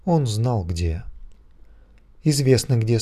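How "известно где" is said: ordinary delivery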